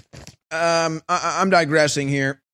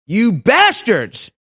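slow, raised and harder; louder slow outraged curse; 5 semitones higher, 3 dB louder, much slower than usual. Real, not acted. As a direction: punch it out in outrage. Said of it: "repeated curse, louder".

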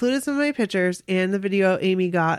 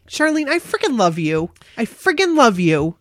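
gushing love; 3 semitones higher, 6 dB louder than usual. Real, not acted. Touched by the story.

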